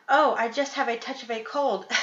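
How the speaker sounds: wolf squeaking to pass as sick granny; squeaky. Acted. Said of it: "squeaked the wolf".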